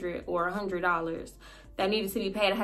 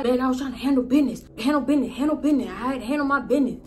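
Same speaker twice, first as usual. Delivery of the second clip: higher, fast mocking imitation of his excuses; mocking high whine; 5 semitones higher, faster than usual. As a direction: mimic him higher and quicker, making fun. Boyfriend's excuse mocked high, fast.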